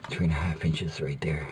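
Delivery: soft whispered self-talk; whispering. Real, not acted. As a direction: whisper it while concentrating. Marking the cut, muttering.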